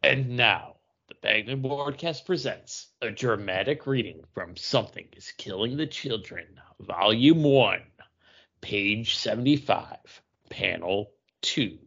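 slow, formal radio announcer build-up; announcer intro. Acted. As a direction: present it like an old radio show host. Podcast announcer introduces reading.

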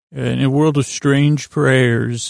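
slow, drawn-out trailer narration; movie trailer voice. Acted. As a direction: stretch it out like an epic film trailer. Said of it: "That was called the movie trailer".

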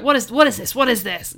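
loud mock-angry demand; hammed-up aggressive questioning; Caesar. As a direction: act out an angry outburst, half-seriously. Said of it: "really angry and aggressive".

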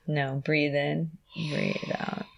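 hushed, calming voice; soft and soothing. Real, not acted. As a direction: talk her gently through it. Guiding breath during injection.

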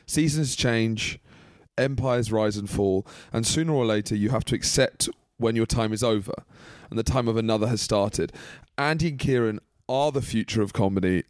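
slow, grand reading of a letter; mock solemn letter. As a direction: read it like a pompous farewell. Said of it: "read out some of our fan mail".

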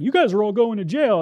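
loud pretend arresting officer; Roman centurion. Preacher posing as centurion to frighten disciples, loud mock threat. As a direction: announce it like a soldier making a mock arrest. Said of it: "like, as a Roman centurion".

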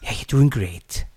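put-on Scouse catchphrase; lightly imitated Liverpool voice; mock Liverpool accent. Podcaster repeating a catchphrase to co-host, mock Liverpool accent. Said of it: "Liverpool now".

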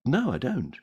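deadpan refusal; lightly voiced conductress; flat conductress. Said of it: "And she says".

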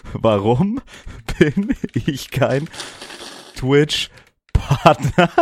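very slow, stretched words; drawn-out mock whine. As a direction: stretch every word out long.

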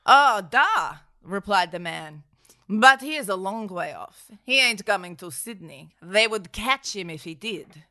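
a hint of Russian. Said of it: "fucking Russian".

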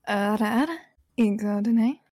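teasing anime catchphrase, rising at the end; anime "ara ara". Acted. Streamer performing the anime catchphrase for a friend, lightly teasing anime voice.

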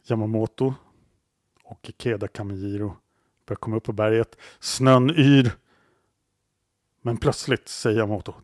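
measured storytelling with long pauses; suspenseful story narration. A narrator's reading. Storyteller takes hunters up the mountain, suspenseful narration. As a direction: build toward a sudden halt, phrase by phrase.

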